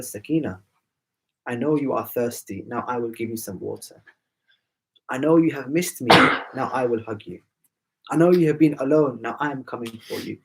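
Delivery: lightly acted comforting father, falling at each promise; tender reassurance. Father consoles his thirsty, lonely daughter in a dream, tender reassurance.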